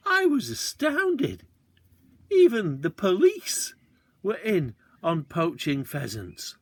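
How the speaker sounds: put-on a boy who can't believe the police poach too; astounded. A narrator's reading. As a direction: let the shock slow every word.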